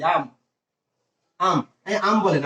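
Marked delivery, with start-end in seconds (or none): 0.0-0.3 আম said with an open a, like the Bengali word for mango. Shown as a demonstration. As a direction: say আম with a wide open a. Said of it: "আমরা গাছে যে আম দেখি". (গাছের আম-এর মতো খোলা আ দিয়ে আম বলা)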